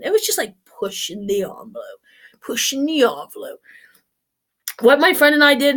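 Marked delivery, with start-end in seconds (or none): 0.7-3.6 soft unvoiced whisper; whispered aside. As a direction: let it slip out as a secret.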